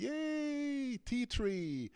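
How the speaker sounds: high, delighted yay; excited cheer. Real, not acted. Cheering as the game makes a tree, high and delighted. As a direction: squeal with joy at the result.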